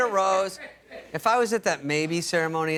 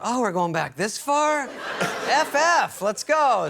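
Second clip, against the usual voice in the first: mock impatience; 5 semitones higher, slower than usual. Bachelor hearing she goes back four years, mock impatient outburst. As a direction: cut in as the comically fed-up listener.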